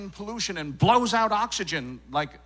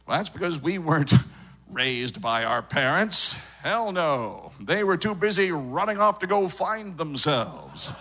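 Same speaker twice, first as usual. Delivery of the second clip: put-on affected Los Angeles accent. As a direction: talk like a self-absorbed Los Angeles native. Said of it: "everyone strives to sound like this".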